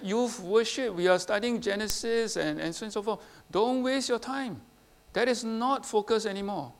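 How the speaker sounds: lightly mimicking the dismissive teacher; mock false teacher.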